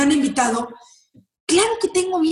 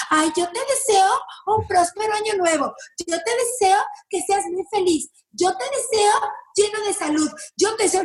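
sing-song New Year wishes, pitched up; syrupy mock blessing, higher and lilting; mock sugary well-wishing; 5 semitones higher than usual. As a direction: parrot the sweet clichéd greeting people give you. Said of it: "te dicen".

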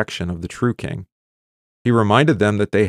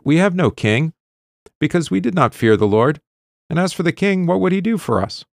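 the people's words pitched much higher, lightly acted; quoted voice of Israel; 9 semitones higher, 4 dB louder than usual. Teacher voicing Israel's people within the reading, raised pleading tone.

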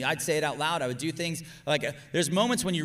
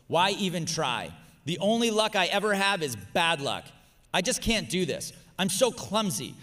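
a mildly higher, louder, whiny complaining voice; voicing negative self-talk; 4 semitones higher, 4 dB louder than usual. Shown as a demonstration. Preacher reads the listener's negative thoughts in a mild whine. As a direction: act out the defeatist inner voice. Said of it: "So I'm just gonna read through them".

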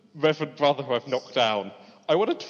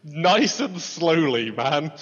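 slow and soothing; much slower than usual. Acted. Calming hostage standoff.

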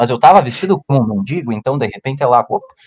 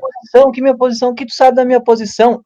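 mock indignant yell; 10 semitones higher, faster than usual. Retelling his indignant reply.

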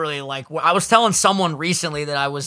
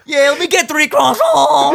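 slow, higher, laughing order; milk it through laughter; laughing mock order; 10 semitones higher, 5 dB louder, slower than usual. Friend jokingly mimics the croissant order, laughing.

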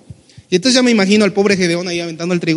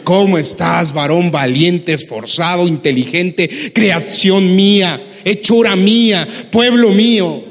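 sincere loving greeting. Retold or imitated. The Lord greeting his child, sincere and building. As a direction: lift them up, each name warmer. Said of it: "el Señor se aparece contigo y te dice".

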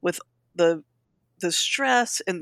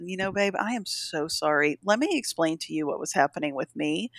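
mother quietly apologizing to her hurt daughter; gentle apology; 5 dB quieter than usual. Retold or imitated. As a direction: soothe her gently, like a sorry mom. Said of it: "I just said".

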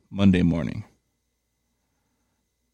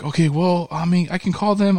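high, breezy lady agent voice; mock phone agent; 10 semitones higher than usual. Mocking the FedEx lady to his cohost in a high voice. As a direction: pitch way up and play her careless. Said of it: "She's like".

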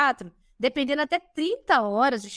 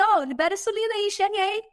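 high, cheery mock announcement; voicing the amino acids; 6 semitones higher than usual. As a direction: pipe up like an eager messenger. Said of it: "falam assim".

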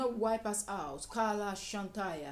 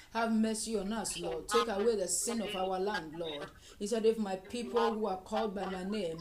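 fervent prayer. Acted. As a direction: cry out to God for the land. Fervent intercession.

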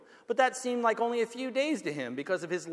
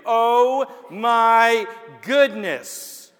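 shocked gasp; 7 dB louder, much slower than usual. Acted. Preacher reacts to Jacob's shock.

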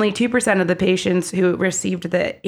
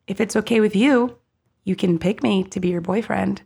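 gentle. Retold or imitated. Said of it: "truly cares about you and is gentle".

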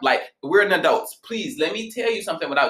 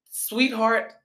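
higher, gently placating term of endearment; sweet endearment; 6 semitones higher, 3 dB quieter than usual. Retold or imitated. Reader softening a message to a client, sweetly placating. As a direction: say it sweetly, a pitch up. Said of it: "I use certain terms to her so she knows".

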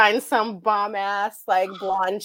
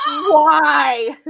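outraged cry; 4 semitones higher than usual. Real, not acted. Outraged at hated word.

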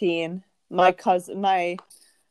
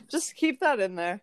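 whisper. Real, not acted. Whispered joke.

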